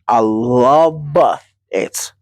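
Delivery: stretched slowly, savoring it; slow drawn-out. Shown as a demonstration. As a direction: drag out the words lovingly. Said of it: "Did I just say I love it?".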